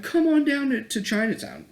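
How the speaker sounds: high, loud sing-song mock invitation; mocking liberals. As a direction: lampoon them like a cheesy ad. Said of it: "they're like".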